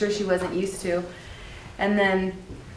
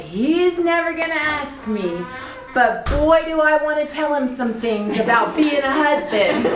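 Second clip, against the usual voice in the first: imitating Ida; 7 semitones higher than usual. Wife's mother Ida voiced in story.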